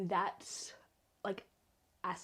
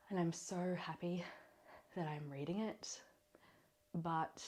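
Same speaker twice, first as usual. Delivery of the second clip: flüsternd; 6 dB quieter than usual. Real, not acted. Gesteht leise ihre Freude.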